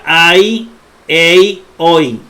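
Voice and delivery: ai, ei, oi each with the final i sounded; sounded diphthong. Shown as a demonstration. Teacher showing what not to say, ai, ei, oi as diphthongs. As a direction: voice the i glide in ai, ei, oi. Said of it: "no se pronuncia".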